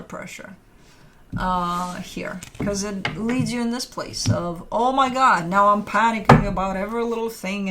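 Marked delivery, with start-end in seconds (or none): 4.7-7.7 louder, mildly frantic imitation; put-on stressed outburst; mock panic. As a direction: act out fretting over everything. Acting out a panicked querent.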